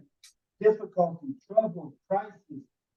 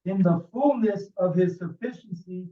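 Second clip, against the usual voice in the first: scripture reading; 4 dB louder than usual. Acted. Reads scripture aloud to group.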